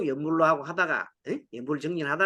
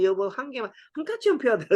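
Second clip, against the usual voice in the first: pleading, last line pitched higher; mock begging husband; 4 semitones higher than usual. 밤에 아내에게 담배 한 개비를 비는 남편, 애원하듯. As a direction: beg your wife for one cigarette. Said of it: "사정을 하면서 밤에 막 빌면서".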